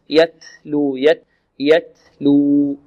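slow "يتلو" with air released after the t; measured demo of an aspirated t in "يتلو"; breath on taa. Shown as a demonstration. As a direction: let the breath run on the t of "يتلو". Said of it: "هو جريان النفس".

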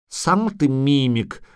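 slow guttural creature voice; odd throaty creature, offended. A narrator's reading. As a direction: retort in a drawn-out guttural voice. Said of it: "гортанно проговорило существо".

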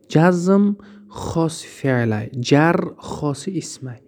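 جزم خاص فعله spelled out slowly for the class to write down; slow dictation. Shown as a demonstration. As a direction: dictate each word slowly so students can copy. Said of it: "اینا را ایش دهیش رو مخته نکنین".

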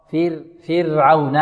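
slow فرعون, fir with a tapped ر; correct light ra. Shown as a demonstration. Teacher models the right way after an error, correct light ra. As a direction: say فرعون slowly as fir-awna. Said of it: "هكذا".

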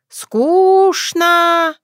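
put-on high, loud whiny old woman's complaint; bored whine. A narrator's reading. Old Yaga to her granddaughter, a high bored whine. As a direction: wail it, she is dying of boredom.

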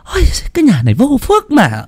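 very high, scornful rant; parting scolding. A narrator's reading. Mother-in-law scolds while walking off. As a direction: fling the complaint as she leaves. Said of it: "ném lại một câu".

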